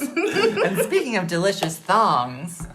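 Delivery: put-on a light, slow Scottish accent. Host teasing guest, in a light Scottish accent. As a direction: roll it out in a mock Scottish lilt. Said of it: "that was your Scottish accent".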